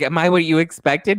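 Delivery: high, loud insistent question; mock needy woman. Woman to fiance after reveal, mock needy. Acts woman eagerly seeking approval.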